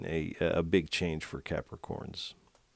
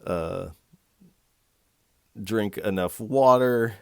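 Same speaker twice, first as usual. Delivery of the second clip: upbeat infomercial pitch, louder; 2 semitones higher, 4 dB louder than usual. Pretend. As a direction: sell it like a TV ad. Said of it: "sound like an infomercial".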